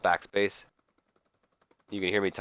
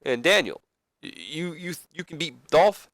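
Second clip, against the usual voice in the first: higher, halting moderator voice; put-on higher voice of a host; lively moderator; 6 semitones higher than usual. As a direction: step in between squabbling wrestlers, pitched up.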